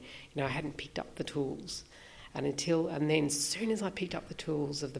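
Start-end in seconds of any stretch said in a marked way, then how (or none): 0.4-1.8 murmured private thought; whispered thought. Retold or imitated. Own thoughts in his head.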